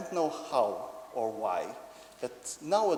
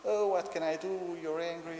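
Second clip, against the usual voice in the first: higher, mildly hammed-up sympathy; daddy mirroring; 5 semitones higher than usual. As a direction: offer help to a cross toddler, lightly. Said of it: "continue in this interaction".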